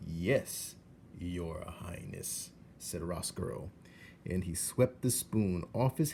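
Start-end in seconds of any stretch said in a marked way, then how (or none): 0.1-2.5 mock courtly. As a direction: flatter her with a mock bow. Roscoe mock bows.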